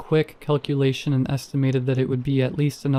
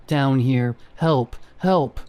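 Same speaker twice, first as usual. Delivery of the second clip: inhuman call; slower than usual. A narrator's reading. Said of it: "no longer that of a human".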